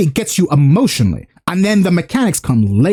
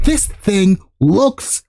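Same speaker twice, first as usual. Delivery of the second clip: awestruck hype; 2 semitones higher, much slower than usual. Acted. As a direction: stretch every word out in wonder. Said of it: "typically it's like".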